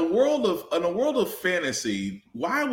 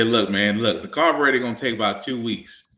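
gruff mechanic; 6 semitones lower than usual. Pretend. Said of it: "I should have a cigarette in my mouth and say".

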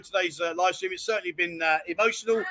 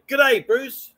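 Australian greeting, higher and punched; Australian accent; 4 semitones higher, 5 dB louder than usual. Shown as a demonstration. Host tells her what to say, Australian accent. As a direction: teach an Australian G'day with gusto. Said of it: "You say".

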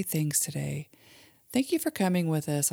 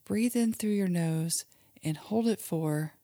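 put-on guided imagery for kids; 2 semitones higher than usual. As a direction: lead a child gently through a calm daydream. Mom leads kids' guided imagery.

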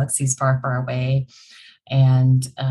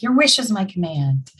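genie; 6 semitones higher than usual. Retold or imitated. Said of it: "that's where my brain goes".

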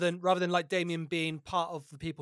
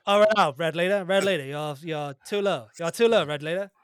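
radio pilot voice; 4 dB louder than usual. Acted. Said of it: "do it with that voice".

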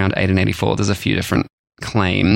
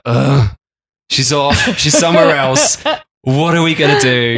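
higher-pitched comic helplessness; mock helpless husband; 4 semitones higher, 3 dB louder than usual. Guys whose wives are away, mock helpless. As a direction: play at being lost without the wife.

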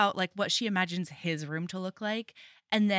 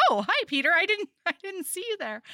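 put-on flustered girl; 8 semitones higher, 3 dB louder, faster than usual. Girl flustered greeting crush.

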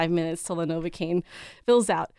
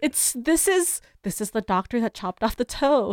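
laughing disbelief; 3 semitones higher, slower than usual. Retold or imitated. To friends, recalling spotting the toe-cutting doctor, laughing. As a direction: laugh through the horror of it. Retold panic at the doctor's sign.

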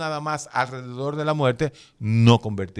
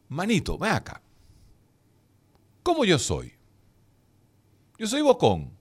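imitating asking a friend; 6 semitones higher than usual. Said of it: "y usted le pregunta".

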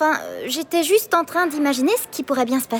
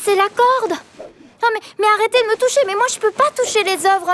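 being tickled; 4 semitones higher than usual. Acted. Tickled by the rope, laughing.

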